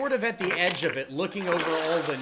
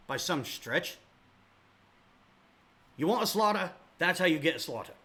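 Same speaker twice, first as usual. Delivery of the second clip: scornful captain. Acted. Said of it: "and Horblack says".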